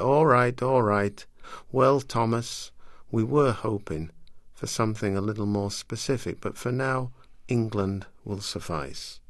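loud, sarcastic schoolmaster voice; stern schoolmaster. Acted. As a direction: bark it over the class laughter. Schoolmaster calls class to order.

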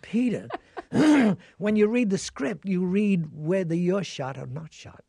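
loud, high, laughing through the words; laughing reply. Real, not acted. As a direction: laugh it out at your son. Laughing retort to son.

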